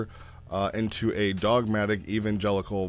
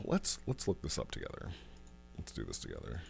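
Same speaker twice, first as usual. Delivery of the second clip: hushed; 10 semitones lower, 13 dB quieter than usual. Real, not acted. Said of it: "sudden hush".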